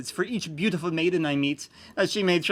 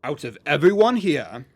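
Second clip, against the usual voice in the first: put-on teaching young children; 4 dB louder than usual. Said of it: "in a voice meant for teaching young children".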